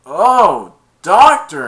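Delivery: high, loud yelp of pain; sudden high cry of pain. Retold or imitated. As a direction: yelp like you just got hit. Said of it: "he went".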